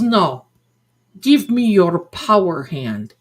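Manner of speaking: lightly put-on Madame Blavatsky accent, emphatic; mock psychic accent. Psychic demanding the customer's power hand, fake accent. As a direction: imitate the psychic's foreign accent, a little loud. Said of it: "I have that Madame Blavatsky accent".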